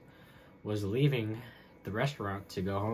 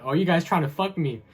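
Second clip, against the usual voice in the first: loud, high imitation of the boss again; mock angry yell; 8 semitones higher, 10 dB louder than usual. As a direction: shout it like the red-faced boss. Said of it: "I remember he said".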